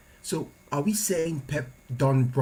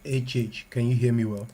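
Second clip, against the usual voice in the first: echoey, boxed-in sound; like talking from a bunker; inside concrete bunker. Real, not acted. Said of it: "You sound like you're in, you're in a, a, a bunker".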